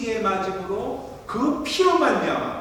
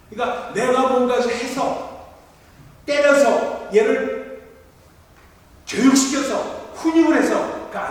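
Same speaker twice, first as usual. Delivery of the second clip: emphatic preaching; 7 semitones higher, 8 dB louder, slower than usual. Real, not acted.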